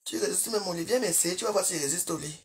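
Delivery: low, whispered provocation; whispered taunt. Real, not acted. Taunting a commenter about bed, whispered and low. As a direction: hiss a dare under your breath.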